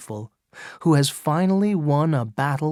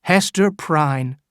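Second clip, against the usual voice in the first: louder, slow call of her name; 5 dB louder than usual. Acted. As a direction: summon her firmly across the crowd. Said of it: "calling to Hester from the scaffold".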